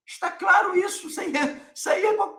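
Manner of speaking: high-pitched, indignant outburst; exasperated shout. Real, not acted. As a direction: shout it at the doubters. Exasperated rebuke of opponents.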